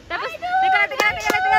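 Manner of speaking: very fast, high tumble of words; rushed excitement. Real, not acted. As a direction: blurt it out in a hurry. Excited hurried talk.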